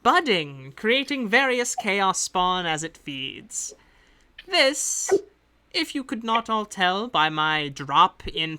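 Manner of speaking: a lightly put-on accent for a composed agent; the employer briefing hired adventurers in her accent; hint of a foreign accent; accent NPC voice. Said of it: "I keep fading in and out of the accent".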